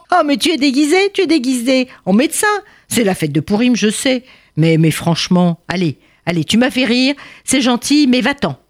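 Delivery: a high, teasing guard brushing him off; amused officer. Acted. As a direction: chuckle and wave him away. Officer laughing at disguise.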